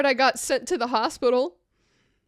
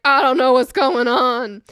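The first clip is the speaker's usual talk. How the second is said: distressed confusion; 8 dB louder than usual. Retold or imitated. Retold confusion at hospital.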